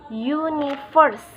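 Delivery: "universe" drawn out slowly, main stress on the first syllable; slow demo of "universe", unstressed middle, secondary stress on the last. Shown as a demonstration. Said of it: "there is usually primary stress on the first syllable".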